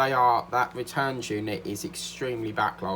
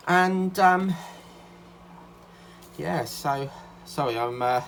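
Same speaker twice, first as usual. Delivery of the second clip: out of breath from rushing back; winded, catching breath between words; 4 semitones higher, 4 dB louder than usual. Real, not acted. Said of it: "little bit out of breath 'cause I've just got back".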